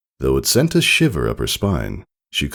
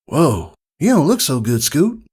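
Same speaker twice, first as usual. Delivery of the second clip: whispering friend; 10 semitones higher than usual. Acted. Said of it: "to whisper in her ear".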